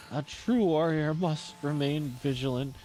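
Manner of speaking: measured, grave warrior voice fading down; solemn warrior. Acted. Voices the warrior character's line.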